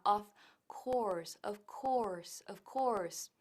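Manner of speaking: "course" with a long O. Shown as a demonstration. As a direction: hold the O in "course". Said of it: "es una O larga". ("course" con la O alargada)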